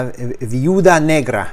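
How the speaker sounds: Viuda Negra said the Spanish way, slowly; Spanish title. Shown as a demonstration.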